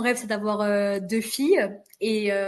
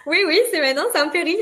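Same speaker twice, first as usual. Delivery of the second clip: higher, louder midwife's firm yes; midwife reassuring; 7 semitones higher, 9 dB louder, faster than usual. Retold or imitated. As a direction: assure her it's happening now. Midwife's emphatic reply, voiced.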